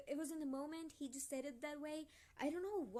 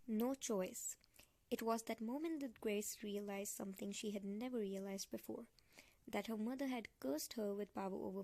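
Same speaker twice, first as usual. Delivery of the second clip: story narration. A narrator's reading. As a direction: read the passage gravely from the page. Reads the novel aloud.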